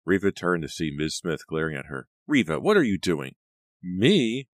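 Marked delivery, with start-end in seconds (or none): 2.3-3.3 stern rebuke. Acted. Boss confronts Riva. 3.8-4.5 a high, loud, indignant Me; sputtered surprise. Acted. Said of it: "Riva sputtered".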